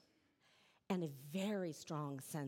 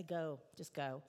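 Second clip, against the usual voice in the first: a touch of a tired mother relenting; slow, lower, mild mock sigh of a mom giving up; 3 semitones lower than usual. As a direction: let it go, mildly worn out. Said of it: "eventually relent and say".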